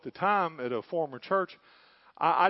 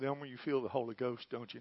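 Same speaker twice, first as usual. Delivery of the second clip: a hushed question into a man's ear; retold whisper; 5 semitones lower, 8 dB quieter than usual. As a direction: softly, close to the ear, lightly hushed. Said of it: "I whispered in his ear".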